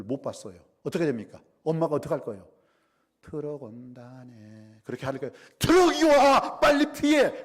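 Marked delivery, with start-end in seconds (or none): 3.2-4.8 slow, soft, unhurried warning; calm drawn-out remark. Shown as a demonstration. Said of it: "그렇게 말하지 않을 거예요". 5.6-7.4 high, full-force danger shout; drawn-out, high-pitched yell of alarm; urgent warning scream. Acted. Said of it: "소리를 지를 수밖에 없어요".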